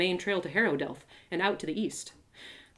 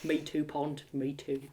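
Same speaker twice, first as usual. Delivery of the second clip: soft and tender; 6 semitones lower, 9 dB quieter than usual. Acted. Rock's soft reply.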